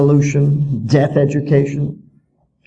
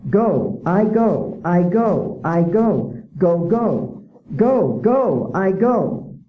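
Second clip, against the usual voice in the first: singsong, sing-songy sound-it-out reading, higher; mocking a reader drill; 3 semitones higher, much slower than usual. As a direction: chant it like a dull child's primer. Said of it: "listen to this".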